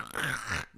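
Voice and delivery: imitated crackle of drying out; shrivelling noise. Showing a body exposed to air, crackling noise. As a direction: make a short rasping decay noise. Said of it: "it's like".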